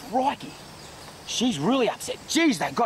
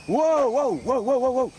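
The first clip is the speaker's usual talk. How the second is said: calling out; 4 semitones higher, 3 dB louder than usual. Real, not acted. Calming a lunging animal.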